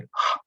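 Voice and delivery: "h" as a bare puff of breath; breathing h sound. Shown as a demonstration. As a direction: breathe out the "h" by itself. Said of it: "pronounced with a breathing".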